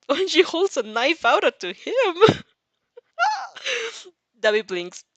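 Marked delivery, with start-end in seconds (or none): 0.1-2.4 reading while laughing, higher; can't stop laughing mid-sentence; real giggles; giggling through the line. Real, not acted.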